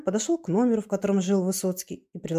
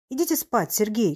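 ordinary delivery

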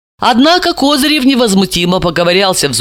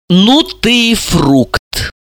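angry hiss; 3 semitones higher, much slower than usual. Acted. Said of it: "зло процедила".

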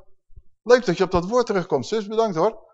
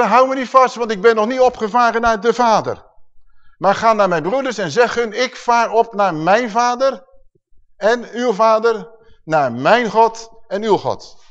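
proclaiming Yeshua; 5 semitones higher than usual. Acted. Preacher proclaims Yeshua's words aloud.

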